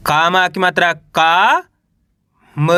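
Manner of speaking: drawn out syllable by syllable; slow spelling. Shown as a demonstration. Teacher spells out कामयाबी slowly. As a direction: stretch each sound for the learner. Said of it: "उच्चारण किस तरीके से करेंगे".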